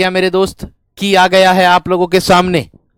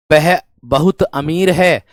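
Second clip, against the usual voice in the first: slow, deliberate sentence reading; slow example reading; much slower than usual. Shown as a demonstration. Teacher reads the contrast example slowly. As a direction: read it slowly, pausing at परंतु. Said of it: "ऐसे भी कह सकते हो".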